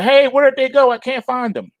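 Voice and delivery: high-pitched puzzled viewer, looking around; confused lost viewer. Retold or imitated. Viewer who can't find the stream, high and puzzled. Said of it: "at least you won't be like".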